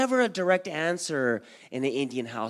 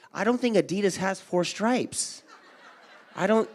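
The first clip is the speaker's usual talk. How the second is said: normal talking voice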